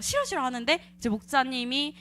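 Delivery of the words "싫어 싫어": retold refusal. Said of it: "그래서 내가 막".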